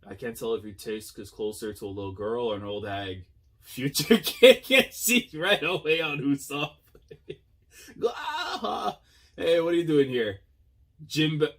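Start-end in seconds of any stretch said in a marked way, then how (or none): 3.6-11.5 excited. Real, not acted. Reacting to a One Piece episode.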